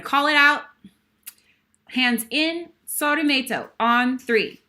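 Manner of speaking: rally the crowd for the chant; calling out. Real, not acted. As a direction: team cheer leader counting in. Leads the group call-out.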